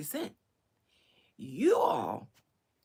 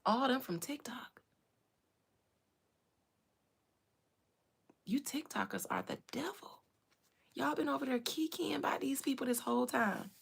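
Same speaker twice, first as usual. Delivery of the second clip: breathy, hushed gossip; conspiratorial whisper; 3 semitones higher, 3 dB quieter than usual. Real, not acted. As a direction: whisper the accusation. Conspiratorial asides about TikTokers.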